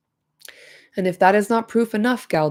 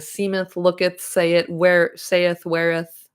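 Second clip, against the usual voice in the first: pompous mock-archaic; slower than usual. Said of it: "Isildur adding F to everything to try and sound profound".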